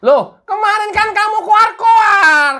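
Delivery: loud scolding interrogator; furious mock investigator yelling; angry shout. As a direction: shout him down for bragging. Interrogator berates witness.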